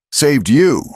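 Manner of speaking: high, loud mocking question; scornful disbelief. A narrator's reading. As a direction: scoff in disbelief.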